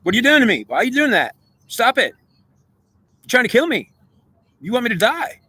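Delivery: confronting the goddess in his head, rattled and pleading; heated retort. Retold or imitated. Man to the inner goddess, high agitated accusation. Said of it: "but I'm like".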